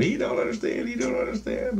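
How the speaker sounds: high put-on inner voice; voice of soul. Soul commenting on the confused dreamer, high imitated voice. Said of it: "I hear my soul going".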